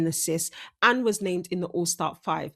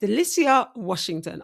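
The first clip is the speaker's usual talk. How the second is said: "Delicia" slurred through braces; careful try at "Delicia" with braces; 2 semitones higher than usual. Real, not acted. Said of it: "So I'm gonna try that again".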